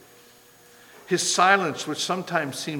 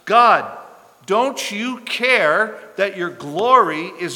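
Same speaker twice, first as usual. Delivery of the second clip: higher and louder, slow and pressing; impassioned challenge; 4 semitones higher, 4 dB louder, slower than usual. Acted. Prophet challenging God about his name, higher and louder. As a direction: demand an answer from God.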